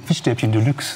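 talking with a mouthful of food; chewing while speaking; mouth full. Real, not acted. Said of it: "mit vollem Mund reden".

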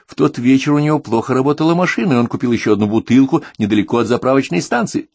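high-pitched, insistent explanation; agitated outburst. A narrator's reading. Wife blurts out details of that evening, agitated. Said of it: "крикнула Тереза".

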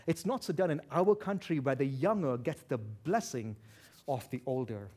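put-on low, knowing stress on "blessing" and "older"; pointed emphasis. Shown as a demonstration. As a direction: lean on "our country" and "younger". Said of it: "I'm gonna emphasize what needs to be emphasized".

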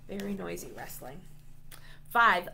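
ordinary delivery

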